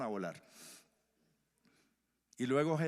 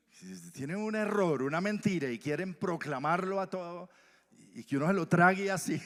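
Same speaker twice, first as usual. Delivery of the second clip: louder, raised voice of rising indignation; heated indignation; 6 semitones higher, 7 dB louder than usual. Retold or imitated. Preacher recalls the taxi driver's lies, indignant and loud. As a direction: let the irritation flare up.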